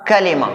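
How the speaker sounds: कलेमा in three clear syllables, ka-le-ma; correct pronunciation. Shown as a demonstration. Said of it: "इसका सही तलफ़ुज़ है कलेमा".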